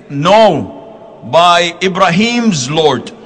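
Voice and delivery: Aisha's sulky oath, drawn out; mock angry oath. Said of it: "When you are angry, you say".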